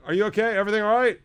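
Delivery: high, concerned asking; concerned question. Retold or imitated. Asking the honking driver, high concerned voice. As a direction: reach up in worried concern. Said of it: "I'm like".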